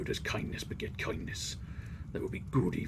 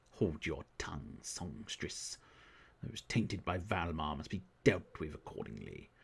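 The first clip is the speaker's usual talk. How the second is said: stern priestess voice; 3 semitones lower, 4 dB quieter than usual. Acted. Voicing stern high priestess.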